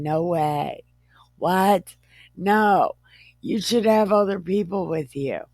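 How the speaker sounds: exasperated, what-are-you-thinking paraphrase; incredulous scolding. Acted. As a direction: scold in comic disbelief. Acts out father-in-law scolding Moses.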